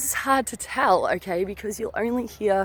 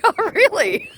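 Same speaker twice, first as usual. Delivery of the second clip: sarcastic retort; 11 semitones higher, 5 dB louder than usual. Retold or imitated. Sarcastic comeback to the ghost.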